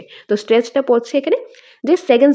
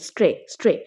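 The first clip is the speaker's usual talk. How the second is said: স্ট্রে as one isolated beat, said lower; stressed syllable alone; 4 semitones lower than usual. Shown as a demonstration. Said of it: "অর্থাৎ third সিলেবলে".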